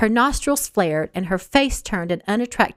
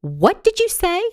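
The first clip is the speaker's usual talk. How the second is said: much higher, louder, sharp demand; shaking the windows with authority; commanding sudden challenge; authoritative demand; 11 semitones higher, 4 dB louder than usual. Acted. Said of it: "such an authoritative voice".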